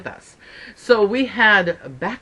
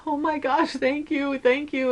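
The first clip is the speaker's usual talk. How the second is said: soft, higher-pitched thanks; acted relieved gratitude; 4 semitones higher, 5 dB quieter than usual. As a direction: gush thanks under the breath, re-enacting relief. Relieved mother thanks the helpers.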